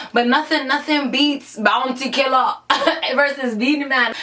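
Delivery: put-on light Jamaican accent, playful. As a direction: lean into a Jamaican lilt. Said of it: "Y'all like my Jamaican accent?".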